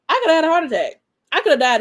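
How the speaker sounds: excited. Real, not acted. Recalling The Rock's surprise entrance.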